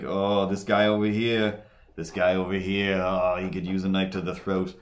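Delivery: lightly put-on voice for bad thoughts. Comedian voicing his bad thoughts about someone, lightly put-on voice. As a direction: slip slightly into an inner bad-thoughts voice. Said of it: "I am thinking in that voice".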